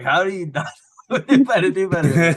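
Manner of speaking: high, loud disbelieving squeal; incredulous mock outrage. Quoting his own reaction to a clueless commenter, loud and high. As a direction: act shocked anyone wouldn't know. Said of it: "And I'm like".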